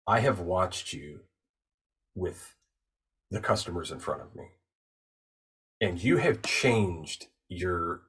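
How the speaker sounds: measured phrases with long, weighty pauses; slow, deliberate pronouncement. Retold or imitated. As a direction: pronounce each observation like a verdict. Retold solemn stranger sizing her up.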